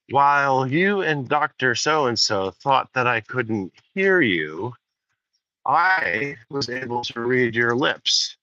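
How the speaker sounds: lightly voiced Hal, calm and deliberate; a hint of a cool machine, slowly explaining; slow, measured computer voice. Hal telling the astronaut he read their lips, slow and measured. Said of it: "Hal nine thousand replies".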